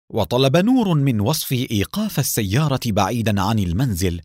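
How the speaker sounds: usual speaking voice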